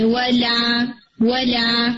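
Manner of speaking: ولا with a light, thin lam. Shown as a demonstration. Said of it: "آپ اسے light رکھیں".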